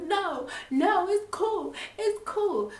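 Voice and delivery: high, laughing it off; dismissive refusal. Retold or imitated. Maria declining grandma's ride, high laughing brush-off.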